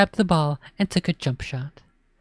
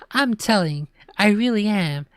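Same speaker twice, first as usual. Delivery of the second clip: put-on tattling child; 7 semitones higher than usual. A narrator's reading. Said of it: "Ashley declared".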